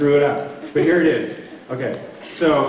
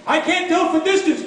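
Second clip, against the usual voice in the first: hasidic guy voice. Retold or imitated. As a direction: lean into the old Jewish father.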